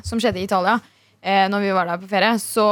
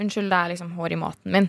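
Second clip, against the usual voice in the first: polite complaint; 4 semitones lower, 4 dB quieter, faster than usual. Retold or imitated. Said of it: "Jeg sa ifra på en måte".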